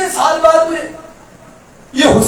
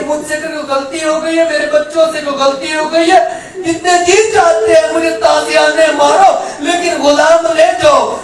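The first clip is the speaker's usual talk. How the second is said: tearful plea; 2 semitones higher than usual. Retold or imitated. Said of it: "رو کر کہتا ہے".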